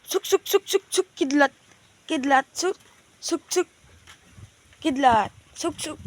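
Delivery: high, loud coaxing pigeon call. Real, not acted. Owner calling his pigeons home, high and loud.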